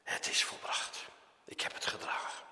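soft, breathy whisper of a dying man; Jesus on the cross whispering that it is finished; whispered last words. Acted. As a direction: barely voice it, spent and exhausted. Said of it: "En hij riep".

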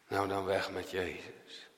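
low, soft, shrugging rejection; dismissive crowd. Acted. Preacher voicing the crowd quietly brushing Jesus aside, dismissive.

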